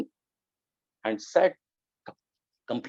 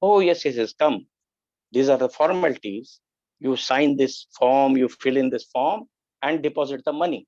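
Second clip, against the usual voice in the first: brisk official; 2 semitones higher, 3 dB louder than usual. Retold or imitated. Voicing the busy hospital official.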